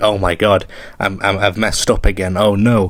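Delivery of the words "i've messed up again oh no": ordinary talk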